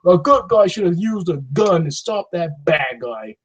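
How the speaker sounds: slow, mocking internet voice; sarcastic imitation of online commenters; mocking quote. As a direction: parrot the gun crowd with scorn, slowly. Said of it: "the internet's gonna come out like".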